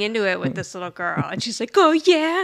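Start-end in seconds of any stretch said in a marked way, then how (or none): 1.8-2.4 lightly mimicked challenge; a higher, louder 'oh yeah' comeback; mock squabbling back at someone; retold taunt. Retold taunting exchange with girl.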